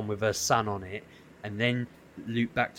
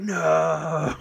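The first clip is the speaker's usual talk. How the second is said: group groan; 6 semitones higher, 6 dB louder than usual. Retold or imitated. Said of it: "Everyone was like".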